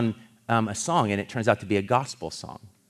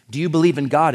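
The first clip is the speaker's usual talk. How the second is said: mock challenge, raised in pitch and louder; confronting question; 6 semitones higher, 8 dB louder, faster than usual. Savage character to the controller, confronting him. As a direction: put the question forcefully, as a retold confrontation.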